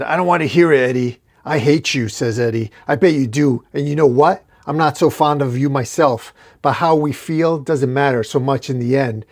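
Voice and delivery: cold father telling off his son; stern father. Acted.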